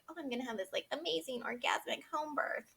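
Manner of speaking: gushing. Retold or imitated. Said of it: "I had always said".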